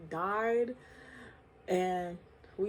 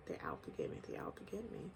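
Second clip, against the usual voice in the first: imitating father's paranoia; 13 semitones lower, 12 dB quieter, faster than usual. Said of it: "He just kept saying".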